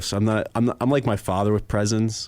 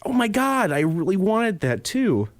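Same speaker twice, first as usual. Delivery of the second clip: unconvincing delight; 10 semitones higher than usual. Retold or imitated. Boyfriend opening another present from girlfriend, forced unconvincing delight. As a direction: overdo the gratitude without convincing. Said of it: "Do you not like 'em?".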